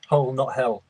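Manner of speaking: "Hull" set against "hell"; careful place-name clarification. Shown as a demonstration. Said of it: "My, uh, accent".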